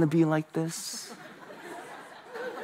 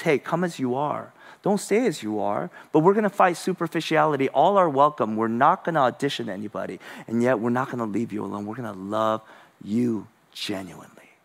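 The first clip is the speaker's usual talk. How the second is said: gentle welcome; 5 semitones lower, 4 dB quieter than usual. Retold or imitated. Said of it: "the gospel family says".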